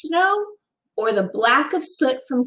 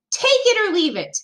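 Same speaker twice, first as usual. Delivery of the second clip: angry ultimatum; 9 semitones higher, faster than usual. A narrator's reading.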